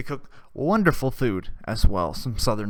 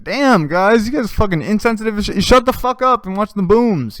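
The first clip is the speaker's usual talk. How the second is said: mock scolding; 8 semitones higher, 4 dB louder than usual. Retold scolding of insensitive friends.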